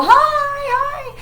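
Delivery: high, bright little greeting; high hello. Real, not acted. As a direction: chirp a quick hi. Greets someone joining mid-story.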